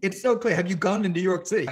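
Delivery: can't believe they call London clean; incredulous retort. Retold or imitated. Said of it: "And I'm like".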